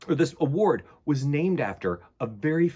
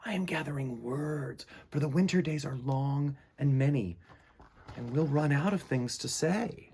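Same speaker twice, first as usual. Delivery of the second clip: gentle and dreamy; 4 semitones higher than usual. Acted. Frederick explains gently.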